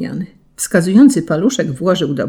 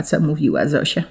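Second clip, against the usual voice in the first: plain reading voice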